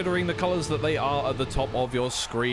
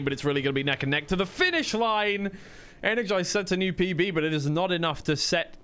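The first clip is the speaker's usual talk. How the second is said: excited finish call; 7 semitones higher than usual. Real, not acted. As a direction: voice climbing high into the finish line, then easing down. Calling a close race finish.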